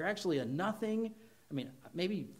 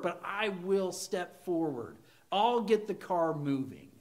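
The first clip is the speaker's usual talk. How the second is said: mild prayerful surrender. Acted. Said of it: "and say".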